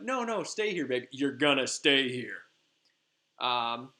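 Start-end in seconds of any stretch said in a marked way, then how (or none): 0.0-2.4 creepy possessive. Retold or imitated. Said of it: "so a little on the creepy side".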